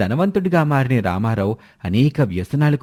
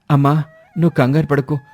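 urgent son; 6 semitones higher than usual. Acted. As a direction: rush the words, taking charge. Elder son Mohan takes charge. (తల్లిని ఆస్పత్రికి తీసుకెళ్తున్న కంగారు కొడుకు)

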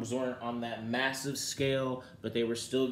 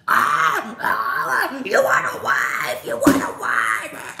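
imitating Marlo's voice; 2 semitones higher, 11 dB louder, much slower than usual. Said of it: "And that voice".

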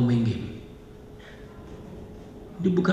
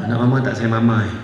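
coaxing mother; 4 semitones lower than usual. Pretend. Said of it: "Kita ubah approach".

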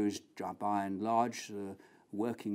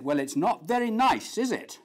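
put-on nosy old lady; 8 semitones higher, 6 dB louder than usual. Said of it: "a very nosy old lady".

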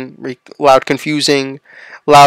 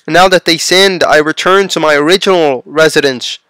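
raised, emphatic lament without real tears; crying lament; 3 semitones higher than usual. Acted. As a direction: lament aloud as a grieving God, lightly acted. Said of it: "was crying and saying".

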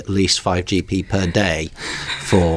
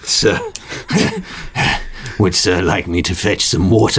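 lightly voiced weary servant; 3 semitones higher than usual. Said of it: "here we shall give you an example".

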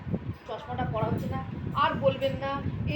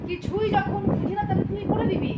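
raised, higher and louder, irritated; exasperated retort; 6 semitones higher, 5 dB louder than usual. Real, not acted. Mother snapping at daughter over the camera, irritated and raised. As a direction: snap back at daughter in annoyance.

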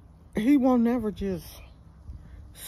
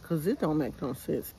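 ordinary delivery

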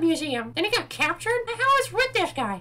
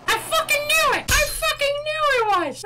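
higher-pitched excited outburst; vindicated exclamation; 6 semitones higher than usual. Real, not acted. Gamer to himself after a right guess, vindicated. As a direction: crow about being right.

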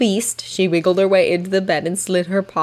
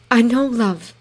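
soothing whisper; 4 semitones higher than usual. A narrator's reading. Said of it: "she whispered soothingly".

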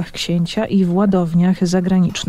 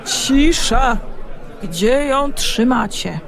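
loud voice; 5 semitones higher, slower than usual. A narrator's reading. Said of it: "donośny głos Mateusza".

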